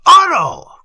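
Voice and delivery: high, loud anguished cry; father cries out in despair; passionate cry. A narrator's reading. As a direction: cry out his name in anguish. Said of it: "cried the other with passion".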